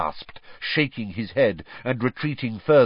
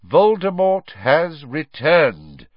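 slow, louder, every word weighed; firm repetition; 4 semitones higher, 5 dB louder, slower than usual. A narrator's reading. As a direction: state it again, immovable. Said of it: "Dumbledore repeated".

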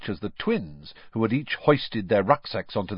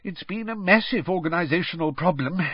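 sighing; 9 semitones higher than usual. A narrator's reading. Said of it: "sighed Mister Weasley".

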